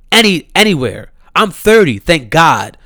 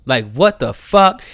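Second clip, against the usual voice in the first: ordinary talk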